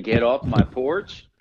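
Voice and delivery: put-on slow, loud old man yell; grumpy old man. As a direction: shoo kids off the porch. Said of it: "Talk about a grumpy old man".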